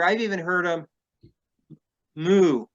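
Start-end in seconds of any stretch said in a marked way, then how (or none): 2.2-2.7 imitated moo. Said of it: "like cows".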